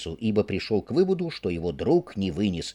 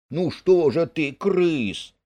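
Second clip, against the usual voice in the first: higher, impatient calling out; 5 semitones higher, slower than usual. Acted. Mole calling impatiently to the digging Rat. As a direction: hurry him up, annoyed. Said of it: "нетерпеливо окликал его".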